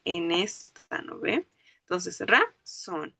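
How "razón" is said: "razón" split, ra lifted, then a long falling zón; stress on last syllable. Shown as a demonstration. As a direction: draw out the zón of "razón" after a short break. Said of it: "el golpe de voz está en la última sílaba".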